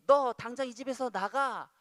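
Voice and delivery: acted angry shouting; parent's shout. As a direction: order the child out, loud and high. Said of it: "소리를 쳤다고 합시다".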